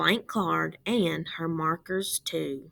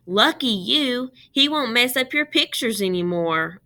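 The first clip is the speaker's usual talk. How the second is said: teasing brother; 4 semitones higher, 4 dB louder than usual. Acted. Aussie teases his sister.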